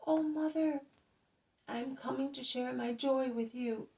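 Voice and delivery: a healed man who can't contain himself; joyful shouting. A narrator's reading.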